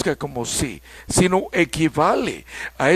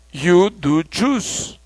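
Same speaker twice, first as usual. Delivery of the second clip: "do" stressed in you do choose; emphatic do; much slower than usual. Shown as a demonstration. Teacher showing the class the emphatic "do". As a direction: lean hard on "do" to insist. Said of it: "una voz enfática".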